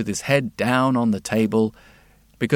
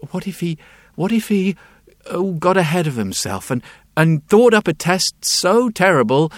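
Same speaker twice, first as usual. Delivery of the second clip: anxious fretting; 4 semitones higher, 3 dB louder than usual. Acted. Wheelwright worrying aloud.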